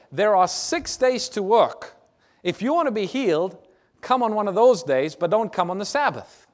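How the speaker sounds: scolding the crowd, high and pressing; indignant synagogue leader. Acted. Synagogue leader rebuking the people, indignant. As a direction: lay down the rule like a stern official.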